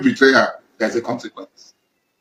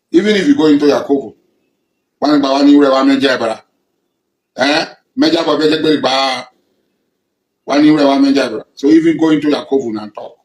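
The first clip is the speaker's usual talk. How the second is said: angry challenge; 4 dB louder than usual. Real, not acted. Angry confrontation of a traitor.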